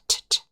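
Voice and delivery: "t" faint and unreleased; almost swallow the "t"; soft unvoiced t. Shown as a demonstration. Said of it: "We don't hear the t".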